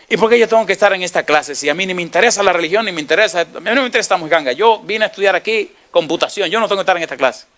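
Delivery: retelling a student's irritated protest; annoyed student.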